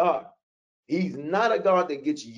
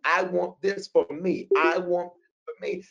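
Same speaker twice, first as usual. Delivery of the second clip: mock demanding; 4 semitones higher than usual. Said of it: "You came at me like I owed you something".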